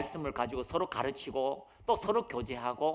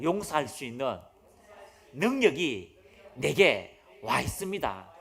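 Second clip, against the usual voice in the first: slow, spaced-out line for the congregation to echo; lead-in for repeating; 2 semitones lower, 5 dB louder, slower than usual. Shown as a demonstration. Preacher leading the congregation to repeat, slowly. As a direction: say it slowly so they can repeat. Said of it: "따라합니다".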